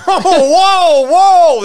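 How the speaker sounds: a laughing, exaggerated English accent on each whoa; mock English accent. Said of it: "That was my fucking English accent".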